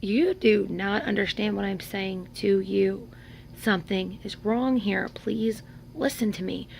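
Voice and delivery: slow, word-by-word appeal; deliberate plea. Retold or imitated. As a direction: spell it out slowly, begging to be heard. Retold plea to disbelieving friends.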